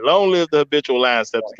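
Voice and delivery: confident, full-chested slogan. Shown as a demonstration. Coaching the host on the slogan, from the chest. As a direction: deliver it like a proud motto. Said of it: "say it with your chest".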